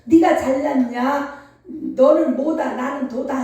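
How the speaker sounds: slow, taunting boast; slow sneering show-off voice; mock boasting. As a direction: drag out the proud challenge mockingly. Mocking prideful boasting.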